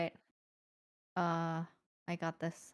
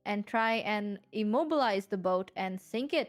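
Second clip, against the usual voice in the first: radio host voice. Acted. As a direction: deliver it like a retro radio broadcast. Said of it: "talking like the radio from Fallout four".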